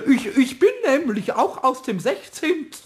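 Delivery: lightly stammered pompous parody, amused; mock servant imitation. Kobold poses as antique from the castle, mock-solemn. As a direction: play the stiff servant while close to giggling.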